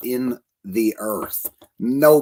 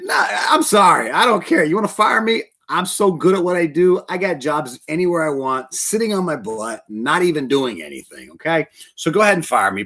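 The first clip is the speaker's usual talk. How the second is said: defiant outburst; 4 semitones higher than usual. Retold or imitated. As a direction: tell the billionaire off, daring him to fire you. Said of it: "I about blew a lid".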